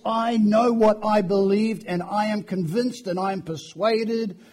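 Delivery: firm declaration of belief; convinced, determined. Acted. Preacher modelling how believers should voice their faith, determined. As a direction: state each clause as settled fact. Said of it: "convincing, determined decisions that they voice".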